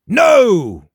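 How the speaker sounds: high, loud bark of refusal. A narrator's reading. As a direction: shout it out in horror at the ghost. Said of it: "barked Jake".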